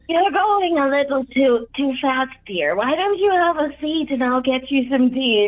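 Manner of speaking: put-on high, creaky old gnome voice, just woken; sleepy old gnome. GM voicing the just-woken old gnome, high old voice. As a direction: waver like a drowsy old man.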